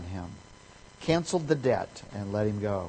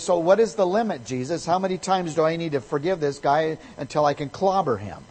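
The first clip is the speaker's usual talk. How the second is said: higher and louder, fed up; exasperated Peter; 4 semitones higher, 4 dB louder than usual. Retold or imitated. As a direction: demand the limit like you're out of patience. Peter pressing Jesus for a limit.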